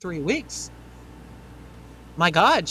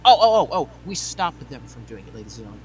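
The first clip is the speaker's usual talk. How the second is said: mock triumph; 3 semitones lower than usual. Mocking claim of credit.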